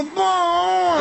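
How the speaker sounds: very slow, high drawn-out oppa; cutesy aegyo. Shown as a demonstration. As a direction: whine the word sweetly. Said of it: "이렇게 그냥".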